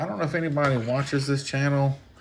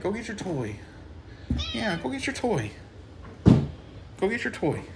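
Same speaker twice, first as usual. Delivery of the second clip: higher and louder coaxing voice for the cat; pet talk; 8 semitones higher, 4 dB louder than usual. Real, not acted. Telling the cat to go get its toy, in high, louder pet talk. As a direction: shoo the cat toward its toy, high and loud. Scolding attention-seeking cat.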